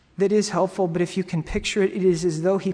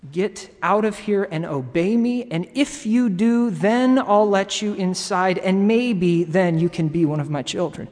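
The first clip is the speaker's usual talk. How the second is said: loud, stern conditional command; yelling father; 5 dB louder than usual. Acted. Preacher voicing a harsh father yelling from the porch, loud and stern. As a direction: raise your voice as an imagined harsh father. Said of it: "he's yelling at you".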